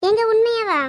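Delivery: wife's surprised, hopeful outburst; delighted surprise. Acted. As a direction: ask it in happy astonishment. Wife delighted by husband's offer.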